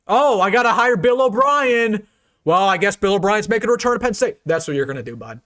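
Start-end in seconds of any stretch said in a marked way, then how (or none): 0.1-4.4 mock rival. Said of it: "You're like".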